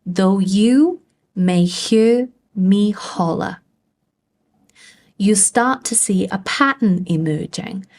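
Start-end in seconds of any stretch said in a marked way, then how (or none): 0.1-3.6 slow iambic swing, "you" drawn out and lifted; light "Though", heavy "you", light "may", heavy "hear"; stressed and unstressed beats. Shown as a demonstration. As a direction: exaggerate every second beat of "Though you may hear me holler". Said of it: "Let's just listen again".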